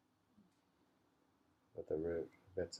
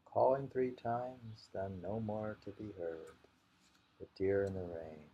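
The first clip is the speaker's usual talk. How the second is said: poem recital. Acted. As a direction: call out calling, then let it fade. Repeats the haiku.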